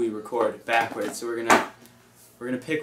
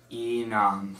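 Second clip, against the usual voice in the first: backwards speech. Shown as a demonstration. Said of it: "we're gonna say words backwards".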